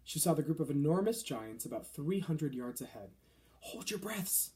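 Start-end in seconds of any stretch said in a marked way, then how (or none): 3.6-4.5 whispered. A narrator's reading. BFG hushing Sophie in his pocket, whispering. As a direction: breathe it out quietly to a hidden child. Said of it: "the B F G whispered down to her".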